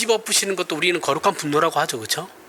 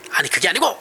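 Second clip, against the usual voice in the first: a sharp raised cut-in, imitating an argument; mock heated retort; faster than usual. Husband cutting off his wife mid-argument, mock shout. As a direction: play the man losing his temper, half in jest. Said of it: "이렇게 되는 거죠".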